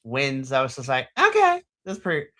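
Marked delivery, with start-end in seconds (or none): 1.2-2.3 squeaky mock reaction, way higher; a high-pitched mock gush; mock high squeal. Co-host mocking the match in a squeaky voice.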